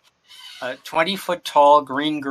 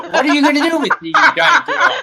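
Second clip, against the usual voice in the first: laughing; 13 semitones higher, 6 dB louder, much faster than usual. Real, not acted.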